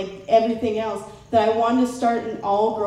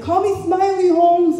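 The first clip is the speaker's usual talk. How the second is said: cholo cousin; 8 semitones higher, 5 dB louder than usual. Retold or imitated. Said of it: "He's like".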